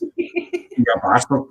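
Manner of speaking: a hint of a begging rugby fan; mock pleading. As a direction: egg him on softly. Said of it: "they come up and say".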